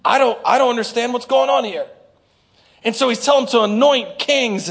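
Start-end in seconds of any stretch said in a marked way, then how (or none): 0.0-1.9 mock complaint. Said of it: "You're like".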